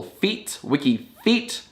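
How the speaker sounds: "feet" singled out, then "Wiki Feet" drawn out; slow "Wiki Feet" with the last word set apart; stress on final syllable. Shown as a demonstration. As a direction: lean on "Feet" to show the rhyme. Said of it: "'cause the final syllable".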